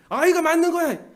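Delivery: high, forceful shout; very loud voice. Acted. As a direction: shout it to shut everyone up and win. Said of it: "목소리 엄청 크게 내요".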